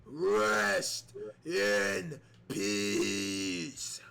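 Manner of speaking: low, very slow rest in peace; slow low mock Undertaker; Undertaker's thought. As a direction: draw it out deep and ominous like the Dead Man. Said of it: "he could be thinking".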